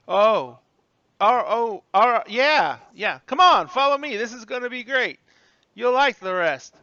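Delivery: high, loud, excited bellhop; eager old bellhop. Acted. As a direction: usher guests along with loud enthusiasm. Bellhop eagerly leads the guests.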